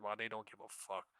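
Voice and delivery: ordinary talk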